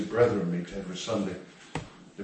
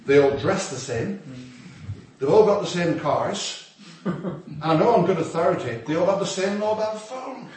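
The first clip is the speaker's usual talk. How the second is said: laughing through the joke; 6 semitones higher, 4 dB louder than usual. Real, not acted. Mocking the sameness, laughing.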